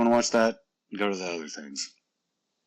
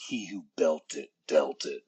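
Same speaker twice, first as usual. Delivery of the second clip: cool catchphrase; 6 semitones lower than usual. Pretend. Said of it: "I'm gonna say cool lines like".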